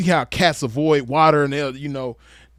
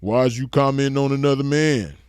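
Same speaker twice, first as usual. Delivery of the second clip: mocking Ashley Banks. Roaster mimics his commenter defending another man, light mockery. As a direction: mimic a commenter's protest, stretching it out. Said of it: "you gonna be like".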